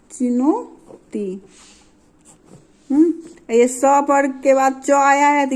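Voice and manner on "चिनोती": चिनोती drawn out very slowly, syllable by syllable; slow dictation pace; slow spelling-out. Shown as a demonstration. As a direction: stretch चिनोती out slowly for the class. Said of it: "क्या है दूसरा उदाहरण?".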